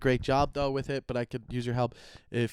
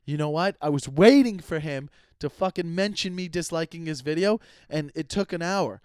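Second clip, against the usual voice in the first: higher, louder hammed-up hater rant; mock angry troll; 4 semitones higher, 4 dB louder than usual. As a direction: play a petty troll fuming that he finally got mentioned. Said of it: "How funny if they're like".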